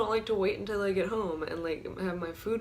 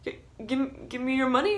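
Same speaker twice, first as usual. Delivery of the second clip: higher, stammering; broken-down plea; 6 semitones higher than usual. Retold or imitated. Robber breaking down, stammering higher plea. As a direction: falter through the demand. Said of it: "breaks down".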